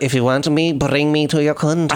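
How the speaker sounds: mildly theatrical diva impression; lightly put-on cabaret diva voice; a singer. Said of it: compared to a singer.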